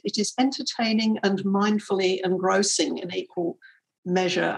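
light emphasis on the word "mindfully"; stress on mindfully. Real, not acted. Host quotes the Guardian reviewer on the book, stress on "mindfully". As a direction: lean a little on "mindfully". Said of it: "I put the emphasis on that word mindfully".

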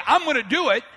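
firm, confident declaration; ready commitment. Acted. Preacher voicing someone who simply says it, ready commitment. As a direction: say it as an easy promise. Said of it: "It's one thing to say".

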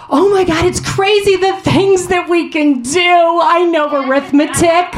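manic airhead voice. Retold or imitated. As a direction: play a frantic maniac proving she's smart. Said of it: "I flailed around like a maniac".

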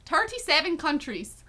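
lilting mock Irish accent; committed but amateur Irish accent. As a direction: play up a singsong Irish accent. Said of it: "a Irish accent?".

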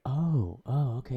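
mildly impressed learner's "oh"; quoting someone catching on; retold realization. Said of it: "that she's like".

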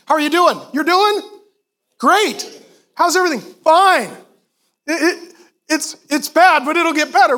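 in a crisis marriage, fake cheerful chat; mock cheery small talk. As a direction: play someone pretending everything is fine.

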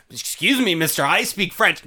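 high-pitched imitation of an affronted woman; indignant lady. Lady answering the tourist who yells at her, imitated indignant protest. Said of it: "She's like".

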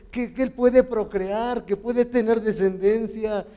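father praying aloud for his son, pleading; pleading prayer. Retold or imitated. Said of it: "A veces digo".

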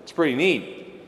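lightly hammed-up smug dude bragging; a hint of a cocky surfer; mock boastful God. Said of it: "He says, not".

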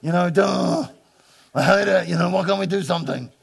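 lightly voiced sulky moaning; mild mock sulk; bored whiner. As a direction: whine about a dull day.

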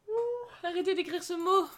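yawning. Real, not acted. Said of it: "Tu m'as fait bailler".

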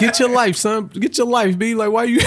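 mimicking the New York woman yelling in traffic; mock New York rant. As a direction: ham up her yelling at the driver behind. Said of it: "she was like".

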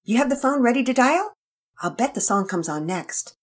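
put-on high, bright child's voice, eager; high child voice, hopeful. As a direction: play the kid waiting by the phone. Child character voice.

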